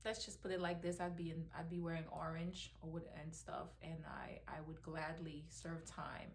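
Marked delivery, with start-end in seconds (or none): 3.2-6.3 slow, grim whisper. Real, not acted. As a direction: whisper it like a quiet threat. Threatening what she'd do.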